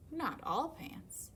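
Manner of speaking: slow whispered aside. Acted. Panda mutters to himself, whispered aside. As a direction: breathe it under your breath.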